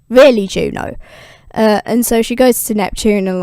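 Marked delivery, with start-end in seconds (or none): 0.1-1.0 "Really" louder with a falling tune; exasperated. Retold or imitated. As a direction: land "Really" hard, falling in disgust. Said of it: "super pissed".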